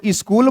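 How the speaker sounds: "स्कूल" said as "is-kool"; mispronunciation. Shown as a demonstration. Teacher asking who says it so, "स्कूल" as is-kool. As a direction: put a short i before the s in "स्कूल". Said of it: "लेकिन वो गलत है".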